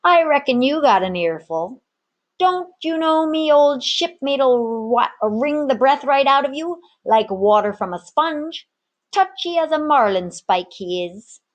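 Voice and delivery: a sly warning from the tavern keeper; gruff barkeep voice. Acted. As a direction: lean in like a menacing old barkeep.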